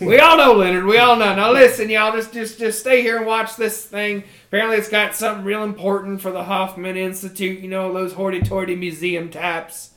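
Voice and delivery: a hint of a blustering southern boss; loud colonel. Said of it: "colonel speaks again".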